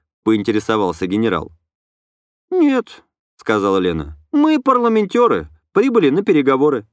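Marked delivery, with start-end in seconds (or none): 2.5-3.0 light, higher female voice; young woman voice. A narrator's reading. Lena answers. 4.3-6.9 light, higher female voice; young woman voice. A narrator's reading. Lena answers.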